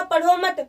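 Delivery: "पढ़ो मत" run together, then stop; pause after मत. Shown as a demonstration. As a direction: join "मत" to "पढ़ो". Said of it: "विराम लगा दिया आगे". ("पढ़ो मत" एक साथ, फिर विराम)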